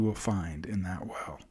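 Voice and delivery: hushed and tender; reassuring whisper. Acted. Reassuring the child.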